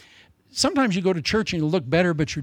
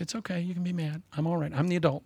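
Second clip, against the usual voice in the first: put-on soft, soothing voice to a cross baby; calm the little one down gently; hushed and reassuring, softer; soothing parent; 5 dB quieter, faster than usual.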